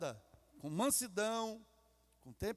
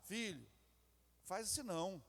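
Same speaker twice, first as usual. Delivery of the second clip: much softer, lower, calm correction; gentle correction; 6 semitones lower, 8 dB quieter than usual. Retold or imitated. Parent calmly correcting a son, soft and low. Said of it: "Mas você fala".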